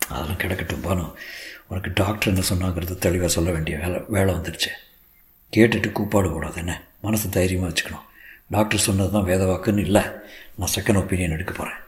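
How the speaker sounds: grave husband. Acted. Husband prepares wife for bad news. (அடக்கிய குரலில் கணவன்)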